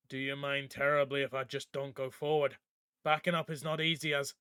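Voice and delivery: lightly voiced fishman, overly polite; a touch of a fussy sea creature pleading. Merrow Sig answers, polite voice.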